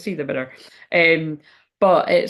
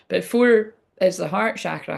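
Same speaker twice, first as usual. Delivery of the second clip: speaking through the hiccups; hiccuping between words. Real, not acted. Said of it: "I can't stop hiccuping now".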